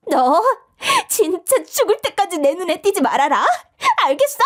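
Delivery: high, venomous warning; bully's last vicious warning as they part; spiteful threat. Acted. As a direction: spit out the threat. Parting threat.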